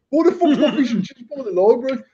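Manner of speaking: high, laughing "what the fuck" as the brother; laughing mock outrage. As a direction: imitate the angry brother while cracking up. Brother's angry retold question.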